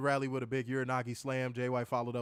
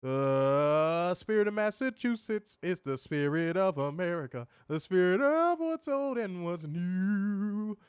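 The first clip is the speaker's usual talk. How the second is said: slow, swelling announcer proclamation; a hint of a grand ring announcer, stretched out; patriotic hype call; 4 semitones higher, slower than usual. Host quoting the commentary on Briscoe, slow patriotic proclamation. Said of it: "Taz labeled him the Pride of Delaware".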